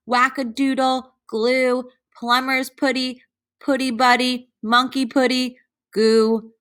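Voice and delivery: put-on a playful tool-list recital for kids; rising excitement through the list; brisk list reading. A narrator's reading. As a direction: rattle off the tools quickly and rhythmically. Reads long tool list.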